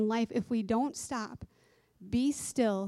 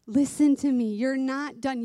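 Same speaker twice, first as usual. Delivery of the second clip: urgent insistence; 4 semitones higher, 5 dB louder than usual. Acted. Voices God insisting.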